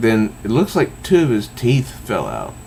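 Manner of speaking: ordinary talk, nothing marked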